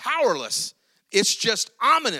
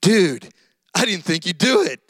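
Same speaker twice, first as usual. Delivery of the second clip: casual Jesus; 5 dB louder than usual. Retold or imitated. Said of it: "and he says".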